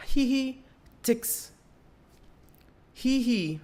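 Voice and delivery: high, giggly mom reading her text; imitating mom. Son mimics mom's texted giggle, high and giggly. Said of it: "And my mom says".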